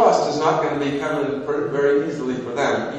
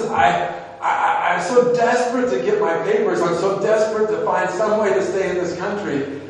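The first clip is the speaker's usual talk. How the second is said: high, pressing and urgent; anxious confession that fades at the end; desperate plea; 5 semitones higher, 3 dB louder than usual. Retold or imitated. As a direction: beg with rising desperation. Desperate man pleading for papers.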